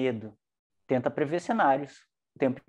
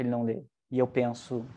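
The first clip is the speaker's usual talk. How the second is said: ordinary talk, nothing marked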